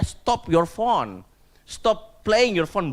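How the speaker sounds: slow, loud, stretched-out command; scolding mother. Retold or imitated. Mother telling her child to put the phone away, scolding. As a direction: order it firmly, dragging the words out.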